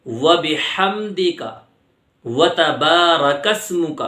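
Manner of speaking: slow, measured recitation of the thana. Shown as a demonstration. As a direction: recite each phrase slowly with pauses. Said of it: "پوری ثنا اس طریقے سے پڑھیں گے".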